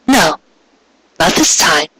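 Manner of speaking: put-on a shy, hopeful young mare; Cupcake's voice. Cupcake holds back a prank.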